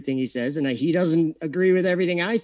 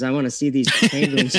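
laughing; 4 dB louder, faster than usual. Real, not acted. Laughing, repeating the demand.

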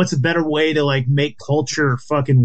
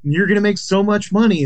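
higher-pitched imitation of flattery; mock flattery; 5 semitones higher than usual. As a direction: gush in mock admiration. Acts out someone flattering the girls.

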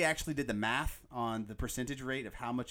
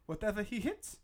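much higher, louder mock line; mock menace; 6 dB louder than usual. Fan quoting Drago's stats line, hammed-up. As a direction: deliver the punchline with hammed-up drama.

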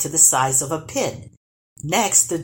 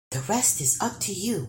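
whispered; 3 semitones higher, 5 dB quieter than usual. Acted. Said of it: "whispered the dwarf".

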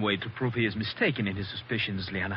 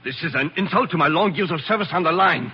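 louder, wounded pride; outraged protest; 3 semitones higher, 4 dB louder than usual. Acted. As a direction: protest the insult to his honour. Servant outraged at accusation.

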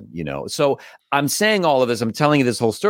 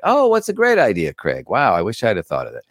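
mock sarcasm. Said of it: "I was like".

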